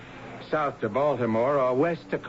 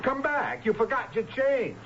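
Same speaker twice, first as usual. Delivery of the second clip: high-pitched call across the station; calling after her; 8 semitones higher than usual. Acted. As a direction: call her back before she's gone. Clerk calls after departing customer.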